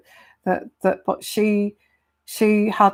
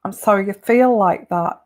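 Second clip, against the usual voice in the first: monotone. Shown as a demonstration. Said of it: "in a very monotone voice".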